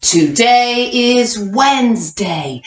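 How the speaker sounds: slow, even choral reading pace; slow read-along for kindergartners. Shown as a demonstration. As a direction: read it out slowly so the class can follow. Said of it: "Read it with me".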